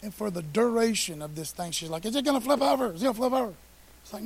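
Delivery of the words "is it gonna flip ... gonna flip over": put-on higher, louder anxious little-girl whine; mock scared child. Preacher voicing his small daughter on a ride, anxious. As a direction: imitate a frightened kid asking again and again.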